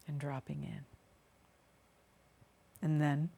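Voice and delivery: unhurried meditation voice with long pauses; guided meditation. Acted. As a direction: guide them gently down into the body, phrase by phrase. Continues leading the meditation.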